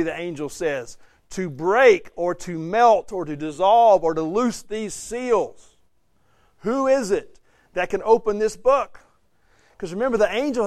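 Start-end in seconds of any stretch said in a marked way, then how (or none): 1.3-5.8 slow, emphatic angelic challenge, rising in pitch at the end; loud angelic proclamation. Acted. Angel challenges creation to loose seals, loud slow proclamation. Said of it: "speaking with a loud voice". 6.6-9.0 raised, higher-pitched challenge; lightly voiced herald's call; loud angelic proclamation. Angel asks who can open the book, raised proclaiming voice. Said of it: "speaking with a loud voice".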